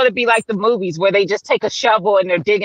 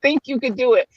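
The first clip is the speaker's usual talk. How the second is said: high, scolding herself, fading to rueful; self-scolding; 5 semitones higher than usual. Retold or imitated. Host retelling scolding herself over her bright ideas. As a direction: tell yourself off, then let it fade. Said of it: "I was so mad at myself".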